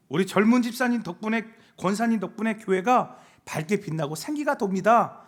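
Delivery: ordinary talk, nothing marked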